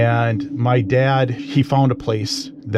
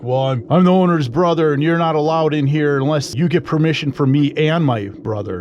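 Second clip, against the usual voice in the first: raised-pitch retold scolding; mock screaming; 4 semitones higher than usual. Owner's brother confronting him in the garage, mock angry. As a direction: imitate an indignant man laying down rules, moderately. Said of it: "this guy's just screaming at me".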